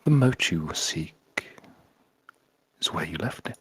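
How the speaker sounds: whispered foppish fiend voice; breathy devil whisper. Acted. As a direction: breathe it like a sly demon. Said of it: "foppish, breathy voice".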